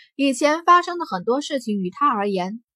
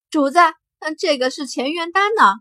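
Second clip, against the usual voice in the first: higher-pitched, eager little companion; somewhat excited; 6 semitones higher, 5 dB louder than usual. A narrator's reading. Xiao Jin tells master about the pill, somewhat excited. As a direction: pipe up with a touch of excitement. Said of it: "小金有些兴奋地说道".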